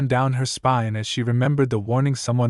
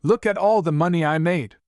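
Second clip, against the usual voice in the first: excited; 6 semitones higher than usual. Acted. Father returns, lifting daughter.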